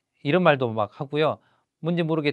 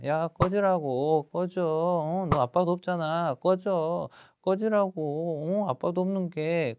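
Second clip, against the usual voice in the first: drawn-out, higher-pitched schoolkid taunt; taunting bully; 4 semitones higher, slower than usual. Acted. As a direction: goad him lightly as the bully. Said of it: "괴롭혔던 애 역할을 좀 해주는 거예요".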